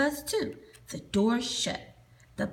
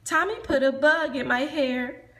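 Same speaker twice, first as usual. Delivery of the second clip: loud complaint; 3 semitones higher, 6 dB louder than usual. Acted. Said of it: "a girl whined".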